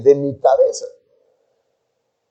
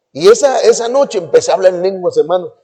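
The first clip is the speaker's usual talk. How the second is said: normal talking voice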